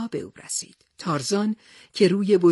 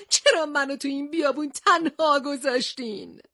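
forlorn cry; 6 semitones higher than usual. Acted. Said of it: "از ترس و تنهایی فریاد کشید".

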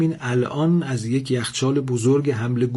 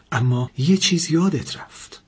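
trembling voice; 5 semitones higher than usual. Acted.

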